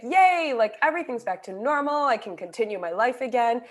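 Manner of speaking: high, bright mock yay, rushed; mock cheer. Speaker imitates her hoped-for relief, excited and high. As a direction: play the naive relief of being healed. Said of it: "aha moment where it's like".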